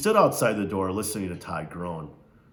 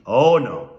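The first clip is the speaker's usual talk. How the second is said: Missus Amos; 6 dB louder than usual. Acted. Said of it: "and she laughed".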